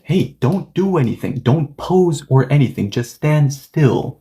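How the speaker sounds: a touch of irritation in acted orders; mild annoyance. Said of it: "So yes, A is annoyed".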